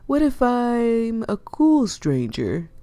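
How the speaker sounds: cheeky slow rising tease; playful coaxing. Acted. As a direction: draw out cool to charm her. Flirty pitch to reluctant fisher.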